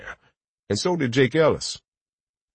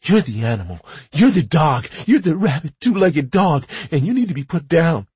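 building accusation; 6 semitones higher than usual. Acted. Wife accuses husband, building.

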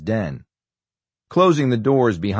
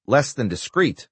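"Less than discreet?" raised high in disbelief; incredulous; 5 semitones higher than usual. Acted. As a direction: echo it back, rising and stunned. Senator repeats incredulously.

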